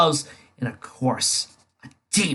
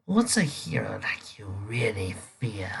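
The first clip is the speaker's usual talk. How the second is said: whisper; 3 semitones lower, 6 dB quieter than usual. Acted. Villain probes hero's fears.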